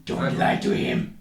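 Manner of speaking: whispered aside, breathy and hushed; mock whisper. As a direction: hiss it in warning.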